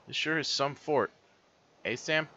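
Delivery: put-on high-pitched wobbly Aussie-British accent; amateur Australian accent; bad Australian kid accent. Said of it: "with kid's accent".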